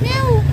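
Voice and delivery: very high, loud cat call; imitated meow. Woman coaxes a scared cat to eat, imitated meow.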